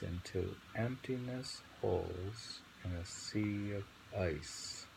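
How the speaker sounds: slow, deliberate poem read; reading the poem again on request, slowly. Acted. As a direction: linger on each image. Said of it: "Read it again".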